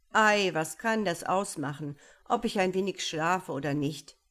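leichtfertig abwinken, etwas lauter; sorgloser Prinz. Acted. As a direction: die Sorge unbekümmert wegschieben. Ferdinand wischt die Warnung weg. (unbekümmerter Prinz)

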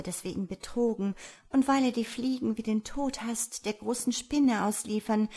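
a hint of an anxious fly maiden; lightly voiced pleading fly. Fly tells the farmer of her feared fate, lightly pleading.

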